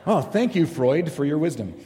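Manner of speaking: sarcastic thanks through a laugh; mock thanks to Freud, laughing. Real, not acted. Self-mocking remark after slip.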